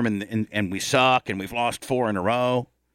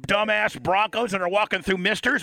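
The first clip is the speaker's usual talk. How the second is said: Mahomes impression; 9 semitones higher than usual. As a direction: brag like a rich star who just beat covid, pitched way up. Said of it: "then he could be like".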